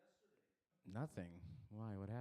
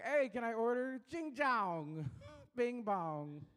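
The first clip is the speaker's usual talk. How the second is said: higher put-on Asian accent ordering food; mock Asian accent; 6 semitones higher, slower than usual. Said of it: "We'll be like".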